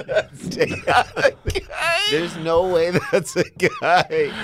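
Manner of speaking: high, squealing protest through laughter; helpless laughing disbelief. Real, not acted. Co-host protests to host over dog photo, helpless laughing disbelief. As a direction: insist on it while cracking up, drawn out and high.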